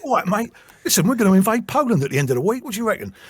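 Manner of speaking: high-pitched, chirpy Cockney geezer; mock Cockney. Joking about Hitler as a Londoner, mock Cockney. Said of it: "British accent with Cockney".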